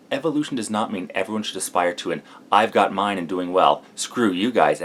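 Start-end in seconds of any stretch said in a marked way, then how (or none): 2.5-4.8 slow, louder smug dismissal; selfish attitude. Retold or imitated. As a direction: sneer it like you don't care.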